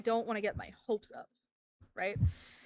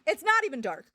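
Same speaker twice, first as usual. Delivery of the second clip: louder, punching not; louder indignant repeat; emphatic protest; 4 semitones higher, 6 dB louder than usual. Real, not acted. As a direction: stress NOT in disbelief.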